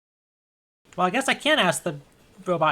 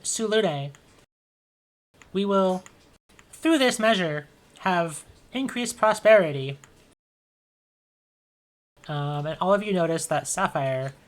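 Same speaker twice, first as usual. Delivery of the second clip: propaganda robot. Acted. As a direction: deliver it like a grand state decree. Robot reads propaganda platform.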